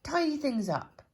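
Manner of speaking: bouncy, keen storybook voice; eager Mister Neat. Acted. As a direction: gush about making things neat. Eager character.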